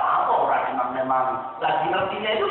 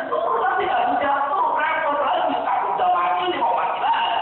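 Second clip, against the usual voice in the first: high scolding mother; 7 semitones higher than usual. Acted. Mother scolding child from loft.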